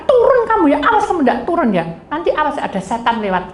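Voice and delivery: high-pitched mock threatening; acted fuming warning, easing at the end; retold angry scolding. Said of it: "Ayo saya marah-marah".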